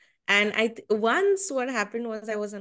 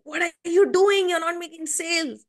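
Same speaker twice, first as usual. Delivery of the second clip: higher-pitched mock shout, imitating a mentor; retold shout; 8 semitones higher, 4 dB louder than usual. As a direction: imitate a boss shouting across the room. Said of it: "he would shout across the room".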